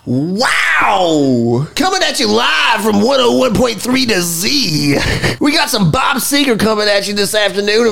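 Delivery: hammed-up radio host hype. Introducing his co-host's story as a radio DJ, hammed-up. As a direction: announce it like drive-time radio.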